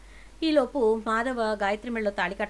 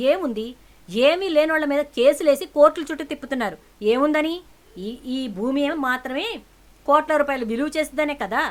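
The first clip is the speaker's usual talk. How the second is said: loud high accusing shout; furious shout; 5 semitones higher, 8 dB louder than usual. Acted. Daughter accuses father of greed, furious shout. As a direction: throw the accusation at him.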